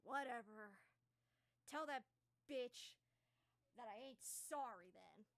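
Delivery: a touch of bitter sulk, tossed back; lightly voiced dark elf sulking out the door; sulky parting shot. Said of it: "he's just like".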